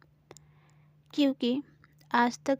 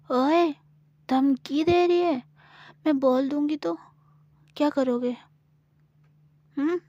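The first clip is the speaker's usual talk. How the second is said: put-on a lightly higher cheeky girl; cheeky challenge; 4 semitones higher than usual. Gauri cheekily challenges Samira's threat. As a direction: tease her back boldly.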